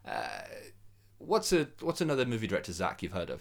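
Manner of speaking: retelling someone pausing to think; retold hesitation. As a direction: stall on "Uh", pause, then ask. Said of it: "Zack Snyder then pauses and goes".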